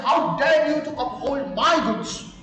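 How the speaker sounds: acted outrage, lightly heated; furious. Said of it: "He became furious".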